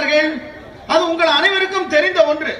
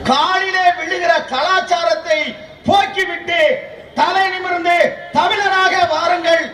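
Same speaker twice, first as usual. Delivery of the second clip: thunderous political oratory; 2 semitones higher than usual. Acted. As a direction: rouse the crowd from the podium. Rousing climax of political speech.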